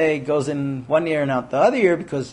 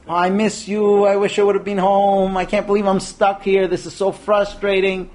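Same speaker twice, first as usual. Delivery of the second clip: female way, emotive; 3 semitones higher than usual. Shown as a demonstration. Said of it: "the female way of saying".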